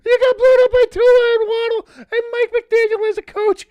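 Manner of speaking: high wheezing laughter through the words; laughing hard. Real, not acted. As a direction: crack up so hard you can barely talk. Laughing hard at rival's loss.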